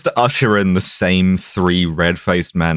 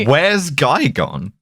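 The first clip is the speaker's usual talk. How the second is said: clueless officials; 5 semitones higher, slower than usual. Pretend.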